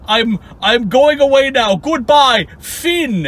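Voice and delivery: high-pitched, hammed-up goodbye; mock a melodramatic exit; dramatic mock farewell. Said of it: "he does this dramatic".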